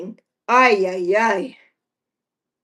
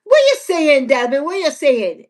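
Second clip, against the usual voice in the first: excited greeting; 3 semitones higher, 3 dB louder than usual. Pretend.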